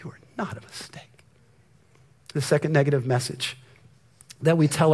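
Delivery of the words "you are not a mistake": soft unvoiced whisper; hushed pastoral reassurance. Real, not acted. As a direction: whisper it close and tender.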